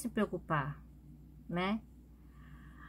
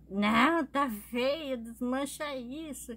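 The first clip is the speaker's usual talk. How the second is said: higher-pitched mock complaint, drawn out at the end; retold grumpy refusal; 4 semitones higher, slower than usual. Grandma rejecting the hairdo in the mirror, mock grumbling. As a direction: imitate grandma protesting, pitch raised.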